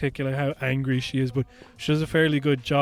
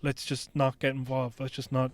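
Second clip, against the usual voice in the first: much softer, pleading to drop it; calming hush; 7 dB quieter than usual. Retold or imitated. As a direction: gently pull a partner back from the fight. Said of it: "like, calm her down".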